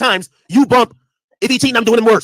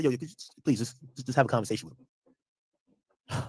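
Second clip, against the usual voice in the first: hushed, slow pleading from the bouncer; lightly voiced bouncer, low and drawn out; 9 semitones lower, 14 dB quieter than usual. Bouncer quietly begs him to talk to the regular, hushed and slow.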